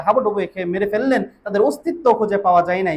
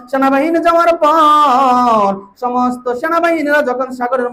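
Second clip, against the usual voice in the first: melodic preaching. Real, not acted. Melodic sermon storytelling.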